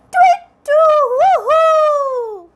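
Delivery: high, loud chirpy bird call; bright tweeting bird noise. Shown as a demonstration. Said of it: "this is the sound of a bird".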